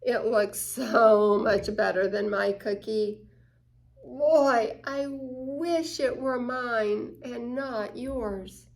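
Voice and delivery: envious longing. Acted. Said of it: "Envy means".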